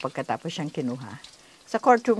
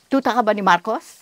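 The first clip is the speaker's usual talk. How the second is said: mildly raised voice, imitating a bold child; retold loud challenge; 5 dB louder than usual. Child talking back to a soldier in court, retold loud challenge. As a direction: quote the child's loud, daring question. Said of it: "ang lakas ng boses mo".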